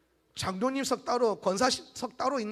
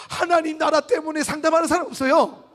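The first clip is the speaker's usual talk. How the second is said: mock loud preaching; 7 semitones higher, 8 dB louder than usual. Mocking what nobody says.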